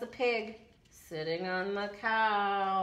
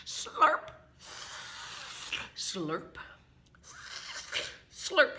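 slurping; 3 semitones higher, much slower than usual. Pretend. Acts out licking hands.

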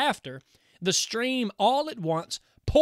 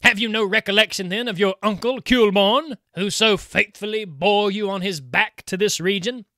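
louder, scornful taunt; mocking uncle spirit; 6 dB louder than usual. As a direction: needle the bride for forgetting her kin. Kuhleborn taunts his niece.

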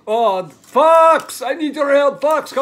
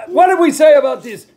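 louder, scolding dad shout; exasperated shout; 3 semitones higher, 6 dB louder, faster than usual. Real, not acted. Dad scolds Calvin for walking into the shot, shouting.

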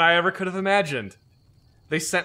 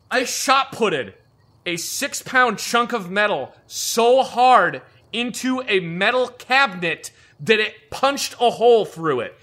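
excited retelling; 6 semitones higher, 4 dB louder, slower than usual. Real, not acted. Telling a violent outburst.

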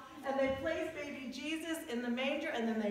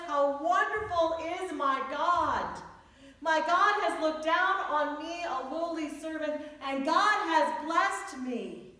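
joyful praise; 4 semitones higher, 6 dB louder than usual. Retold or imitated. Mary's joyful song, retold in sermon.

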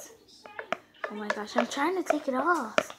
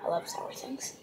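soft secret whisper; 11 dB quieter than usual. Real, not acted. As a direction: whisper it to yourself. Aside while eating sour muffin.

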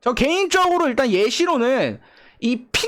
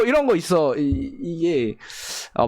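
ordinary talk

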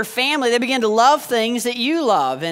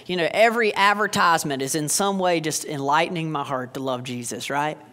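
sarcastic; 4 semitones lower than usual. Acted. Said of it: "That was sarcasm in case you missed it".

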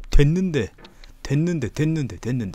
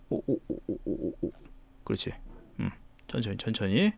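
soft, breathy whisper; hushed whisper; 3 semitones lower, 12 dB quieter than usual. Real, not acted. Delicate careful move.

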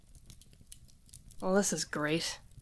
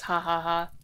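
imitating Santa laugh; 2 semitones lower than usual. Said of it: "and he goes".

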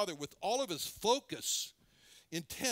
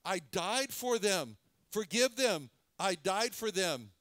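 pleading for forgiveness; 3 dB louder, slower than usual. Acted. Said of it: "what the blood of the Lord Jesus is crying is".

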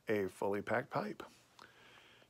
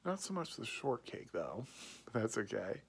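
talking around a pipe stem; speaking with pipe at mouth; 5 dB quieter than usual. Real, not acted. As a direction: pipe held to lips. Seen 3: Pipe bowl held at chin throughout; stem contact with lips unclear.

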